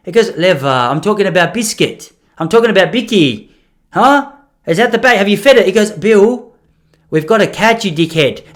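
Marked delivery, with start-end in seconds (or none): 0.4-5.7 insistent grandfather. Retold or imitated. 5.9-8.4 exasperated grandmother. Retold or imitated.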